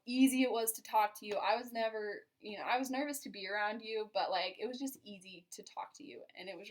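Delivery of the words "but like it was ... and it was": soft confiding whisper. Real, not acted. Telling her husband how easy he was to talk to, in a whisper. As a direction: breathe it as a secret.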